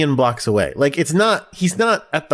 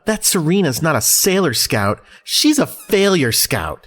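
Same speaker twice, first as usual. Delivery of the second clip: quoting Rei's jab; 2 semitones higher than usual. Retold or imitated. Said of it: "But Rei says in the dub".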